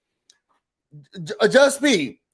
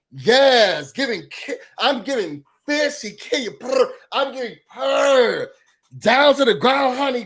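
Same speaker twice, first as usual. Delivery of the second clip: sassy slang demo; 3 semitones higher than usual. Shown as a demonstration. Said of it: "That's a sentence".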